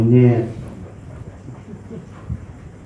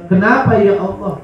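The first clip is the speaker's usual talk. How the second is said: mild, higher-pitched protest; complaining to God; 4 semitones higher than usual. Acted. Believer questioning God, complaining.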